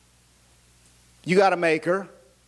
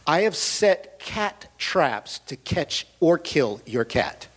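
slow, lower menacing neighbor; mean neighbor; 3 semitones lower, much slower than usual. Retold or imitated. Neighbor threatening to trap the cat, slow and low. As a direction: spell out the threat slowly. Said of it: "She literally said".

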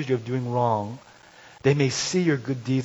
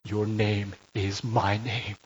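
slow steady father; much slower than usual. Retold or imitated. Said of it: "stands back and says".

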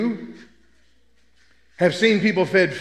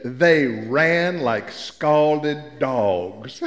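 put-on old lady; 6 semitones lower, much slower than usual. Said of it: "that old lady bowed up and she said".

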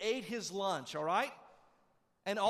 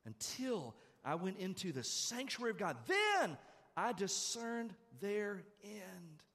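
very slow, drawn-out proclamation of the verse; slow emphatic reading; 4 semitones higher, slower than usual. Shown as a demonstration. Preacher repeating the verse to the church, slow and emphatic. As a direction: stretch every word and declare it. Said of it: "That's what he says here".

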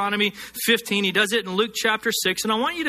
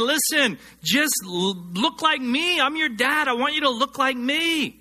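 a higher, lightly voiced fatherly God pleading; voicing God; 7 semitones higher than usual. Preacher speaks as God to his children, gently pleading. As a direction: speak as a dad coaxing his kids to be like him. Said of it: "God is saying".

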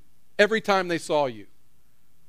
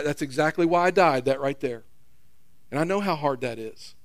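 a hint of a tender son, slightly lower; Jesus speaking to the Father; 4 semitones lower than usual. Jesus interceding with God for us, lightly voiced tender son. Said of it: "it might sound like this".

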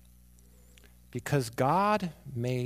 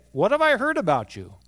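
loud, higher, stern demand; angry Father; 7 semitones higher, 7 dB louder than usual. Acted. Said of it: "the Father does get angry".

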